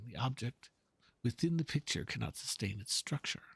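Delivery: worried artist pacing over his canvas; fretting painter. Acted. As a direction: mutter through the problem like a frustrated painter.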